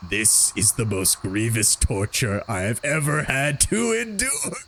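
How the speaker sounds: slow, broken by laughter; can't get the line out for giggling; laughing through it. Real, not acted. Reading Sarevok's line while laughing.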